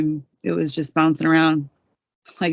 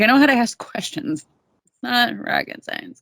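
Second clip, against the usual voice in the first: higher-pitched, exasperated comeback; indignant retort; 5 semitones higher than usual. Retold or imitated. Teen daughter to dad who is teaching responsibility, indignant. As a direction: mildly imitate a teen talking back. Snapping back at dad's lesson.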